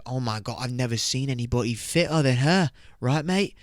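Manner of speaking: lightly put-on British mate; mock British accent. Bro answers about the girl, mock British accent. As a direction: agree like a British lad, lifting at the end. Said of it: "a British person would be like".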